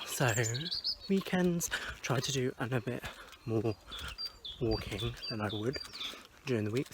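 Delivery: talking around a mint; sucking a mint while talking; strong mint. Real, not acted. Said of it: "Sorry, I'm eating a mint as well".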